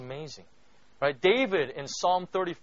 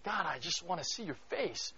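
soft, intimate plea to God; quiet longing prayer; hushed prayer; 2 semitones higher, 10 dB quieter than usual. Retold or imitated. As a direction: breathe it like a whispered prayer. His own earnest prayer recalled.

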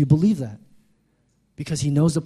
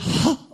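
mock gasp; 9 semitones higher than usual. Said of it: "it's hard for me to breathe".

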